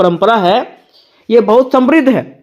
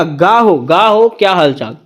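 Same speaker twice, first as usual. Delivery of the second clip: गा हो with a hard g instead of k; Chhattisgarhi greeting; 3 semitones lower, slower than usual. Shown as a demonstration. Teacher imitates Chhattisgarhi villagers greeting lightly. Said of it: "वैसे ही लोग क्या कहेगा?".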